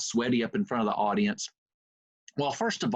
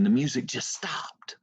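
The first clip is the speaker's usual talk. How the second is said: normal talking voice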